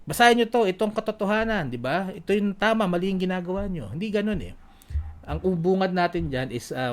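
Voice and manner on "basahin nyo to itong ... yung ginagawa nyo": hammed-up street shouting; mock shouting. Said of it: "magsisigaw ka ron na". (pasigaw na pangangaral)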